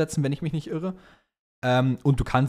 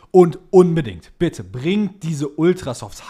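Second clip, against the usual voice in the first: excited plea; 4 semitones higher, 8 dB louder, slower than usual. Real, not acted. Fan pleading for old tyres back.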